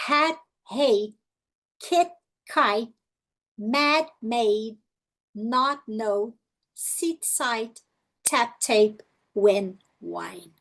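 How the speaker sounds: each pair short first, then long with silent E; short-long vowel pairs. Shown as a demonstration. Teacher drilling pairs, short then long vowels. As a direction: alternate short vowel and long letter-name vowel. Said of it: "Vamos fazer junto".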